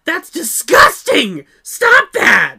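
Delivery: put-on high, loud bratty kid whine; whiny kid voice. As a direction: whine it like a spoiled brat. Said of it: "the kid in a very whiny voice".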